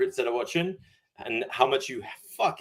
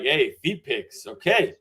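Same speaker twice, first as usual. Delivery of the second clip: playful enthusiasm; slower than usual. Shown as a demonstration. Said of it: "I need you being like".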